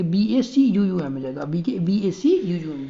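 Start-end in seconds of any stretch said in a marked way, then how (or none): 1.4-2.8 "बी ए सी यू यू एम" spelled slowly, letter by letter; teacher redoing the corrected spelling slowly. Shown as a demonstration. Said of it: "अब हम ठीक करेंगे".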